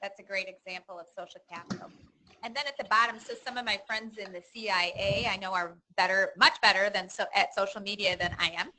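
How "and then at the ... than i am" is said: loud, projecting to the back row; outside playground voice. Real, not acted. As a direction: speak up so everyone hears. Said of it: "I'm gonna put that on".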